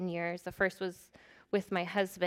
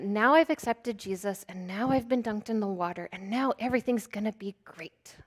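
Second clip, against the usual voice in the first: mock whisper; 4 dB louder than usual. Mocking false expectations.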